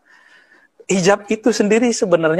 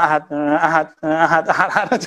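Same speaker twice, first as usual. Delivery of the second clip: mock hurried recitation; 3 semitones lower than usual. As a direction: rattle off the repeated word, half laughing. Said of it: "Kalau saya bacanya kan pelan-pelan".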